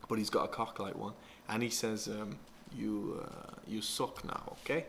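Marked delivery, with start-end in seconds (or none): 2.7-4.8 a hint of a bad Russian accent, slow. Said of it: "It's like the worst accent".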